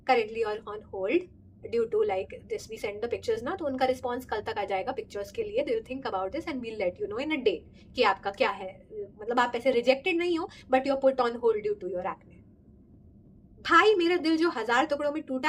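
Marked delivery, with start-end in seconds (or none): 0.1-3.6 very slow, deliberate English; interviewer's verdict. Retold or imitated. Interviewer telling Arya she is on hold, slow and formal. 5.6-7.6 very slow, deliberate English; interviewer's verdict. Retold or imitated. Interviewer telling Arya she is on hold, slow and formal. 10.7-12.4 very slow, deliberate English; interviewer's verdict. Retold or imitated. Interviewer telling Arya she is on hold, slow and formal.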